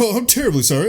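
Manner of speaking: high, prim mock apology; lightly voiced posh knight saying sorry; Lancelot apologizing. Lancelot apologizing to the Lord, in a high mock-polite voice. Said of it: "And he's like".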